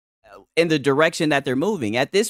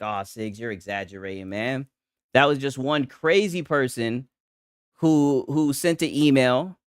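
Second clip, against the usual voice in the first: doubting viewer; 5 semitones lower than usual. Retold or imitated. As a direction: brush it off lazily, hushed. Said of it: "you're probably like".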